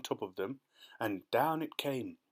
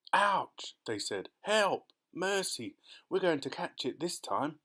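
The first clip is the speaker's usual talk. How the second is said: frightened cries; 5 semitones higher than usual. Acted. Travellers see the storm cloud overhead, crying in fear. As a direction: cry out for mercy in terror. Cloud about to burst on them.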